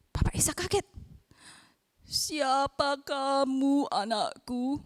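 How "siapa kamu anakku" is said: put-on slow, drowsy old father asking; lightly voiced old Isaac, slow and sleepy. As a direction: let the old man drag each word. Old father Isaac wakes, startled.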